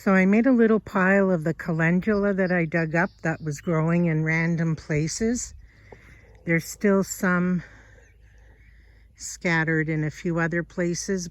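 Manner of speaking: breathless, puffing between phrases; out of breath. Real, not acted. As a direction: talk while winded from digging. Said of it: "sorry, I'm out of breath".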